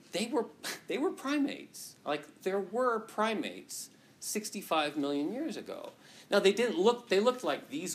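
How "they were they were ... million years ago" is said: laughing. Real, not acted. Mock stunning news, laughing.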